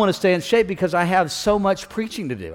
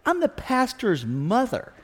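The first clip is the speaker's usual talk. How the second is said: slow, higher, pointed announcement; haughty reveal; 6 semitones higher, 5 dB quieter, slower than usual. Acted. Old lady revealing herself to the usher, haughty. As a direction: announce who you are, drawn out and raised.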